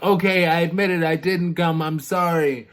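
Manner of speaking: hammed-up hurried apology; imitated frantic confession. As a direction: blurt it out to escape punishment, in play. Woman confessing as guards seize her.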